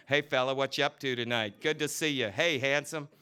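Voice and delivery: playful come-hither calls; coy flirting. Acted. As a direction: tease the men gawking up. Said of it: "dipping coyly".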